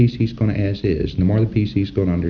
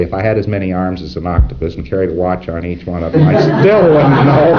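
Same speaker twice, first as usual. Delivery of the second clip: mock wife quip; 2 semitones lower, 3 dB louder than usual. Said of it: "She ought to say".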